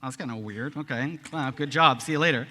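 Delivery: lightly voiced dismissive teenager; clueless seventeen-year-old. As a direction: brush him off like an awkward teen. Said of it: "as a stupid seventeen-year-old".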